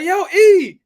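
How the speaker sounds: shouting across an airport at a friend; a high, loud yell of a name; calling out. Retold or imitated. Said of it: "I was like".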